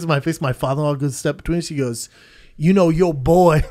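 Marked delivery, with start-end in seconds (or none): 2.6-3.6 loud, slow imitation of a drunk redneck; hammed-up Southern taunt; mock drunk Southerner. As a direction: drawl it like a drunk goading someone. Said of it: "he was drunk".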